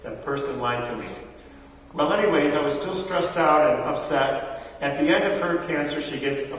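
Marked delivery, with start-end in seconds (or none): 0.0-1.0 softer, lower, resigned; quietly disillusioned; quiet bitter mutter. Retold or imitated. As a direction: let it sag in defeat. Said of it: "I might have said".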